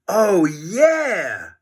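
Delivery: put-on eager boy catching on; George voice. A narrator's reading. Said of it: "said George".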